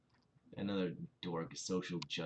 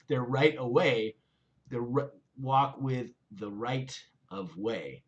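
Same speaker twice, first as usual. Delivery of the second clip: put-on South London accent; 4 semitones higher, 8 dB louder, slower than usual. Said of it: "my best South London accent".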